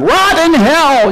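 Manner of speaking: retold crowd yell. Preacher imitating the crowd at the perp walk, mock yell. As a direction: call it out like the angry crowd. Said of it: "people are yelling and screaming at him".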